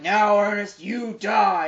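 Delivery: loud villain threat; mock menacing troll. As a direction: declaim it like a hammy troll villain. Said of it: "the troll's like".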